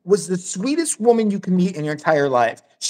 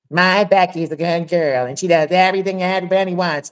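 imitating the dad. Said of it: "and he talked like this".

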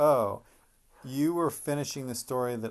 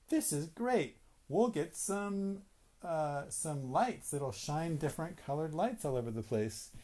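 excited; 3 semitones higher, 3 dB quieter than usual. Acted. Framers excited about party lights.

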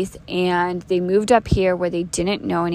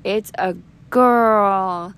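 dismayed dad; 3 dB louder, much slower than usual. Retold or imitated. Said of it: "my dad thought".

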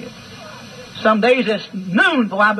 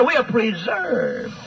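slow correction; 3 dB quieter, much slower than usual. Acted. Correcting the doctrine term.

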